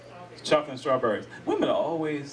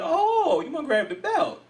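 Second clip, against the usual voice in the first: mock stern dad; 13 semitones higher, slower than usual. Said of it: "I was like".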